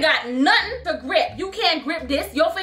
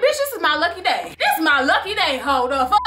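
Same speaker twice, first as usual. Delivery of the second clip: gleeful laughing taunt; laughing gloat. Retold or imitated. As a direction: laugh through the victory. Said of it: "I said".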